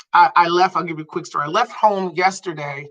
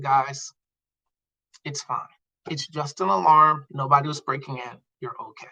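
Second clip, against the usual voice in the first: softer, lower soothing dad; calming reassurance; 4 semitones lower, 5 dB quieter than usual. Retold or imitated. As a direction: gently settle frightened children. Dad calming scared kids.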